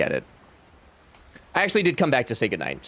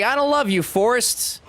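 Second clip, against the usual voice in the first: lightly voiced Jenny, higher; a hint of Jenny brushing him off; 10 semitones higher than usual. Voicing Jenny rejecting Forrest, higher pitched. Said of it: "Jenny's like".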